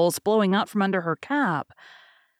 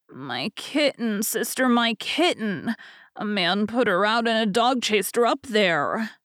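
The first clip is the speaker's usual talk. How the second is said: put-on pleading little boy; 2 semitones higher than usual.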